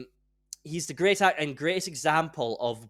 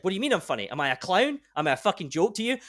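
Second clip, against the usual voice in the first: mock menace; 4 semitones higher, faster than usual. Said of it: "like, so scary".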